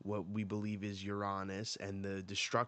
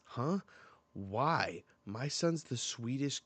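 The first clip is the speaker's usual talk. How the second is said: indignant mock surprise; 4 semitones higher, 4 dB louder, slower than usual. Mother defends her son.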